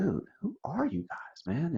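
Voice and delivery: hushed and high, like he can't believe it; amazed disbelief. Retold or imitated.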